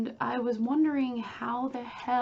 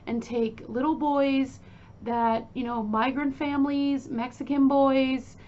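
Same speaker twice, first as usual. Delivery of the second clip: imitating an angry scolding, louder; pissed-off mother; 3 semitones higher, 6 dB louder than usual. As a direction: tell off a son in a loud retold rant. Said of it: "'cause Louise is pissed".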